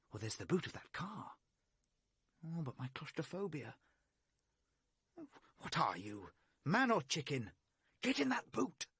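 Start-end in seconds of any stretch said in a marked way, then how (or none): 5.6-8.9 loud, high order to himself; self-command. Acted. Man bullying himself into the car boot, loud and high. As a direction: shout himself past his fear.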